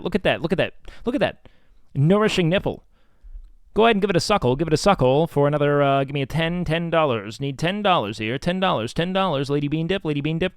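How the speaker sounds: pushy hard-sell auctioneer; auctioneer sales pitch. Acted. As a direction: hype the lot to the bidders. Hyping the painting to bidders.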